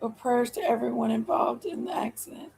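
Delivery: softly whispered prayer. Real, not acted. Whispering prayers for the wreck victims. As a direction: hush it under your breath. Whispered aside while kids around.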